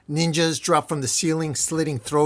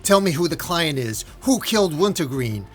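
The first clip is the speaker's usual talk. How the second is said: raised voice, a mild acted scream; mock screaming; 3 semitones higher, 3 dB louder than usual. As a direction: demand it in a half-held-back yell.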